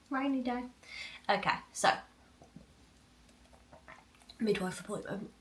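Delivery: normal talking voice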